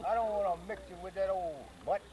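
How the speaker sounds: hammed-up call for Johnny to come; retold scream. Poodle owner calling Johnny to her dog, mock yell. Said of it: "She run out the house screaming".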